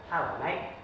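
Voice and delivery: amateur English accent, done for a laugh; attempted English accent. Shown as a demonstration. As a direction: try on a cheeky English accent. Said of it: "try to do the, um, English accent".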